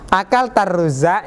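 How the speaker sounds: "Akal tarruza" rising at the end as a question; questioning rise on "tarruza"; question intonation. Shown as a demonstration. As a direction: ask "Akal tarruza" with a lift on the last syllable. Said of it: "Intonasinya itu pertanyaan".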